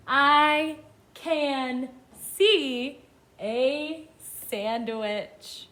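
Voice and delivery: very slow, separated words; each word stretched with a gap after; word-by-word reading. Shown as a demonstration. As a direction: read it out slowly for beginners to follow. Children read along.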